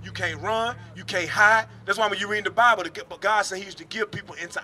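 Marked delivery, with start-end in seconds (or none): none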